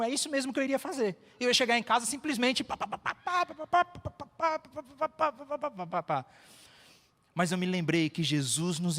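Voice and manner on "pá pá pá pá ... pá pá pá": high-pitched "pa-pa-pa" babble of complaints; mock rapid-fire rant noise. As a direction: imitate a nonstop tirade in high syllables, dropping at the end. Imitates unloading complaints in prayer.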